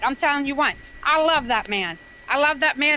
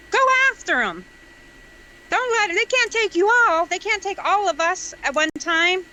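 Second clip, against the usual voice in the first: high-pitched, impassioned rallying cry; really wound up; 5 semitones higher than usual. Real, not acted. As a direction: urge them on, voice pitched up with fervour. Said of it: "I'm getting too wound up".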